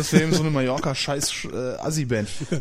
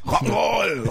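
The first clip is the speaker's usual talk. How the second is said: excited whoop; 9 semitones higher than usual. Pretend. Playful moped ride fantasy.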